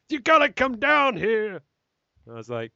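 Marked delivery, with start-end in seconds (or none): 0.1-1.6 much higher and louder, panicked boss yelling; frantic phone shout. Retold or imitated. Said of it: "They shouted through the, uh, phone".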